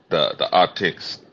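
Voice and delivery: words drifting, a bit high. Real, not acted. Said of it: "I'm high right now".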